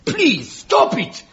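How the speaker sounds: hammed-up melodramatic plea; pleading. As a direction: beg him to stop. Tiny Fred pleads with Billy.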